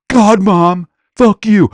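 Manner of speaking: put-on high, loud teen outburst; a kid screaming back at his mom; bratty yell. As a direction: son yelling at his mother in a high put-on voice. Son yelling back at mother.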